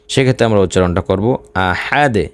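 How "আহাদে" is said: bouncing, echoed final d in "আহাদে"; qalqalah pronunciation. Shown as a demonstration. Teacher shows learners the pausal ending, qalqalah on "আহাদে". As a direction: release the "দ" of "আহাদে" with a short bounce. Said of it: "কলকলার উচ্চারণ করতে হবে".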